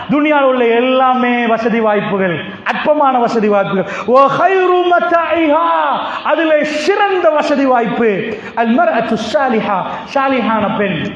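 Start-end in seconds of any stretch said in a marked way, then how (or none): 4.1-5.7 slow proclaimed hadith. Acted. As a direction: draw the Arabic out, slow and ringing. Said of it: "நபிகள் நாயகம் ... சொல்றாங்க".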